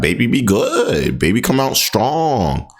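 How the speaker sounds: slow, heavy Southern drawl on each word; drawn-out Southern voice. Pretend. Streamer tells chat about Southern babies, slow mock Southern drawl. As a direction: stretch it out like a Southern grandma bragging. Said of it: "I don't know why I said it like that".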